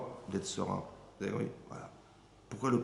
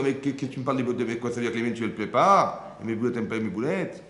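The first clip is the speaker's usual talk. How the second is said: vexed wife; 6 dB louder than usual. Retold or imitated.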